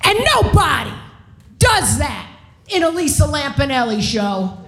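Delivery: hammed-up righteous proclamation with weighty pauses; mock self-righteous. Comic retelling of scolding the audience from the stage, self-righteous. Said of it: "I'm all self-righteous".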